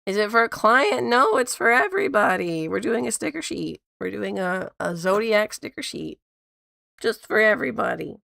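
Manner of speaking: squeaky, sick voice; high squeaky rasp from a cold; squeaky toy voice. Real, not acted. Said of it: "I sound like a squeaky toy".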